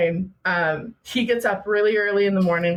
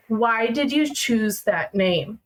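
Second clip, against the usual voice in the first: slow, deliberate question from Mom; retold mother, deadly serious; slower than usual. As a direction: ask it slowly and gravely, word by word. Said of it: "turned around with this dead serious look".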